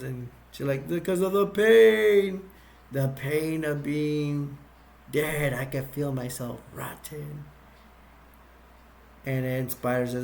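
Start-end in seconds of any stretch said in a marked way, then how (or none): 0.9-7.4 slow, hollow undead moan; pained zombie. Retold or imitated. Undead lady telling Ernie why she eats brains, slow and pained. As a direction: draw out the pain of being dead.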